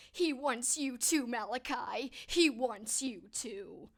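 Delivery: slow, drawn-out creepy movie line; half-hearted try at a creepy cult voice; lightly voiced creepy kid, slow and eerie; bad Children of the Corn impression. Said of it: "That's not a good impression at all".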